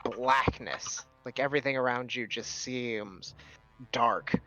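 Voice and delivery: measured, suspenseful scene-setting with stretched words; slow down on each image of the vision; game master narration. Acted. Game master telling Curtis of waking from death, slow suspenseful narration.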